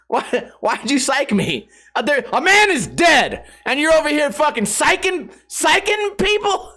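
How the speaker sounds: high-pitched mock outrage, rising toward laughter; outraged protest. Mourner confronts the prankster reverend, high comic indignation. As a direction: scold incredulously, voice climbing as it goes.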